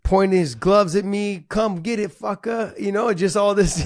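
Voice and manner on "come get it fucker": raised-pitch Hawaiian Pidgin taunt. Retold or imitated. Fighter imitates sparring partner goading him, Hawaiian Pidgin. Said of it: "it was in Pidgin".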